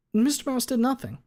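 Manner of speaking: lawyer voice. Acted. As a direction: ask it like a sharp attorney. Lawyer questions witness.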